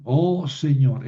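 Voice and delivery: Oh Señor slowly, stress on Oh; slow vocative. Shown as a demonstration. Teacher models the vocative Oh Señor, slow. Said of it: "es un vocativo".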